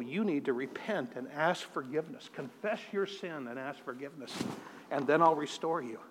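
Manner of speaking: soft, low, breathed words of the Spirit; breathed softly. Retold or imitated. The Holy Spirit breathing into his soul, softly breathed. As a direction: let it come out as a gentle breath. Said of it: "breathed into my soul".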